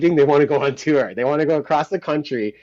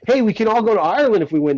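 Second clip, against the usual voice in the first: retold excited call; 8 semitones higher, 5 dB louder, faster than usual. Excitedly calling up his band.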